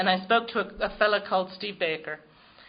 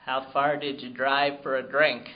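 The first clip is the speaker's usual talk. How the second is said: stern sponsor; 7 semitones lower than usual. Retold or imitated. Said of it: "She said".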